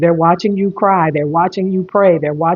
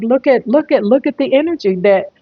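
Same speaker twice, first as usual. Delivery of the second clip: higher, hurried angel voices; urgent angels; 3 semitones higher than usual. Acted. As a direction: urge them to hurry, pitched up. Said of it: "they're like".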